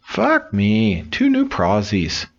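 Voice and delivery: lightly voiced parrot. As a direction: squawk it like a cheeky parrot. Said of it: "the parrot says".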